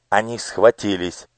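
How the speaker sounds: usual speaking voice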